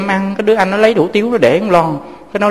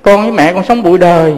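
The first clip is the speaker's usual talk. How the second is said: retold call; 3 semitones higher, 3 dB louder than usual.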